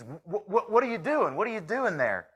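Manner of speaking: asking through a laugh; giggling as he asks. Acted. Cowboy questioning the man on the ground, half laughing.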